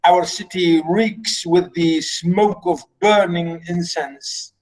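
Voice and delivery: slow, measured dramatic reading; stately, unhurried declamation; lightly voiced king. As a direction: address your people as their king, drawn out. Reads Oedipus's speech aloud.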